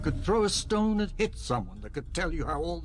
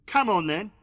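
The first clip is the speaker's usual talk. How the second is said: loud, higher, shouting him down; furious challenge; 6 semitones higher, 11 dB louder than usual. Acted. Bound hostage yelling at his unseen captor, furious shout. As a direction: goad the captor to hit you, full yell. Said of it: "Had to get it out of my system".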